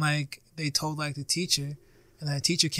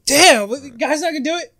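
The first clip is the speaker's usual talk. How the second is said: mock surprised; 11 semitones higher, 10 dB louder than usual. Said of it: "I'm like".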